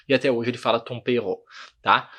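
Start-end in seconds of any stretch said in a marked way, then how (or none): 0.8-1.4 French chef's "tompero", throaty R; French-accented Portuguese. Retold or imitated. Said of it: "ele fala tompero".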